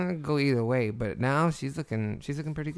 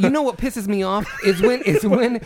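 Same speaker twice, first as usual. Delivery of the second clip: angry rant; 6 semitones higher, 4 dB louder than usual. Real, not acted. Ranting about slow drivers.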